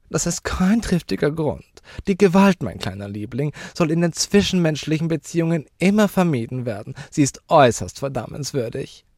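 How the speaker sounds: high, loud, affected lecturing; indignant lady. Acted. Lady lecturing the child on violence, high and indignant. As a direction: moralize in a high lady's voice.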